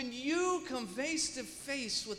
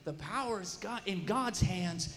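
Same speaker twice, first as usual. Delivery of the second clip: imitating a firm rebuke, building louder; 5 dB louder than usual. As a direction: lay it on them, louder as you go. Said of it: "this guy's rebuking me".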